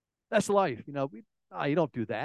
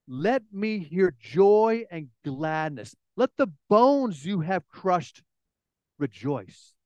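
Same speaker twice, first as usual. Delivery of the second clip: very slow, weighty reading of the verse; slow emphatic reading; much slower than usual. Acted. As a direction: linger on each word of the plea. Rereads verse slowly.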